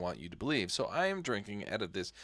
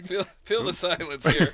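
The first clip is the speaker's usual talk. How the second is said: mock dramatic voice; 8 semitones higher, 7 dB louder than usual. Cohost joins in mock voice.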